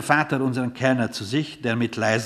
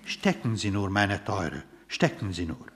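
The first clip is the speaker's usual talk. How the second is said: softer, coaxing and gentle; soft invitation; 4 semitones lower, 5 dB quieter than usual. Acted. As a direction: coax mother tenderly to taste the cognac. Father softly invites mother.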